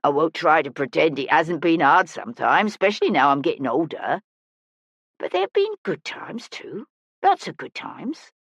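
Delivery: lightly voiced old street musician; a touch of wistful old woman; reassuring older woman. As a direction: admit hardship, then console the child.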